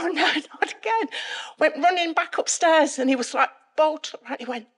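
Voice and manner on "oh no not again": high, quick, laughing groan; laughing dismay. Retold or imitated. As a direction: replay your exasperation through a laugh.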